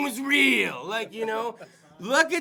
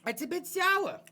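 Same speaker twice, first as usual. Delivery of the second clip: higher, puzzled voice tasting sour popcorn; mock disgusted customer; 7 semitones higher than usual. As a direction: act out a confused moviegoer tasting something off. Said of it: "I'm like".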